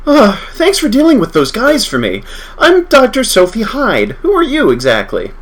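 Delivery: scientist character voice. Acted.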